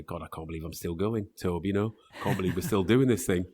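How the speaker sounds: low, muted attempt at Gary's accent; a hint of Gary's accent, poorly imitated; bad imitation of Gary's accent. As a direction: lightly put on Gary's accent, badly. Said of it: "That's a really bad accent".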